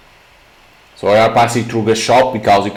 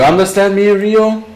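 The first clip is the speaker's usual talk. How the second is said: eerie question; 9 semitones higher than usual. Acted. Rabbit-headed Mamiya questions Ryo.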